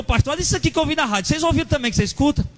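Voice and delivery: agitated caller. Retold or imitated. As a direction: rush it like a stirred-up believer phoning in. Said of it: "aí o cara ligou".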